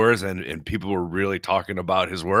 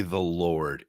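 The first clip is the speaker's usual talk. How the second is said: the Lord said gently and softer, eased off; soft, reverent Lord; 5 semitones lower, 5 dB quieter than usual. Shown as a demonstration. Savouring how people say the Lord, softly and fondly. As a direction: breathe the Lord out, hushed and tender. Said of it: "it's softer".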